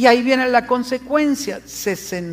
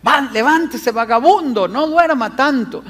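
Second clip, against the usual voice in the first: mom yelling; 3 semitones higher, 4 dB louder than usual. Retold or imitated. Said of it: "una mamá gritándole".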